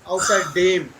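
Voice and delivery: Außer Dam ending in a firm "dem"; Außer Dam with a long e, not an a; corrected vowel. Shown as a demonstration. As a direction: make the Dam of Außer Dam rhyme with "name". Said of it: "No dam".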